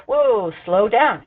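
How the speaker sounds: slow, drawn-out whoa, slow down; lightly voiced baby asking for a break; voicing the baby. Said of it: "cues that start to tell us".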